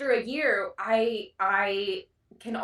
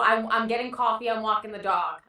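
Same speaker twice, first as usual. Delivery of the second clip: put-on Jersey Shore accent. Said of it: "do a Jersey Shore accent".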